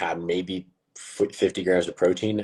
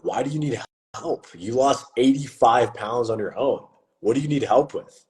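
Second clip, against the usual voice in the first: higher-pitched, incredulous questioning; baffled disbelief; 5 semitones higher than usual. Retold or imitated. Coach asking his friend why he needs help, baffled. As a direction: question him as if it makes no sense.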